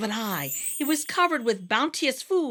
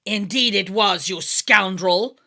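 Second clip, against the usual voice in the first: angry; 2 semitones lower, 8 dB louder than usual. A narrator's reading. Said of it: "answered Tim".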